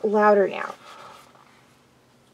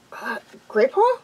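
hesitant question, rising high; puzzled recognition; 4 semitones higher than usual. Acted. Firepaw recognizing his friend mid-attack, puzzled. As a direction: ask it in surprised doubt.

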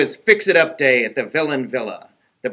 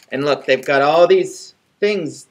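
usual speaking voice

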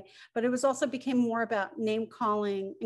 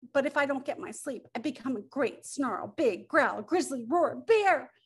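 growly warning. Acted. Bear warns what he becomes.

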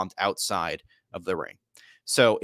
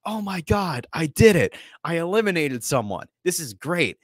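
giddy, much higher excited voice; celebrating; 7 semitones higher than usual. Retold or imitated. Knoxville celebrating his first elimination, high giddy excitement. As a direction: squeal with delight at the elimination.

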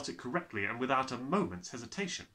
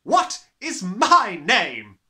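bellowing demand; 8 semitones higher, 16 dB louder, much slower than usual. Acted.

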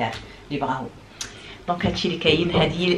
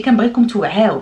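louder, raised plea to the viewers; emphatic plea; 3 semitones higher, 6 dB louder than usual. Real, not acted. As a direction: push it out, insisting they wake up. Urging viewers to be aware. (بإلحاح وبصوت مرتفع)

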